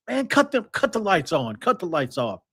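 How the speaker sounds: lightly imitated New Jersey accent, starting high; a hint of a godbrother's New Jersey speech; mock New Jersey slang, mild. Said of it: "mimic my godbrother's accent".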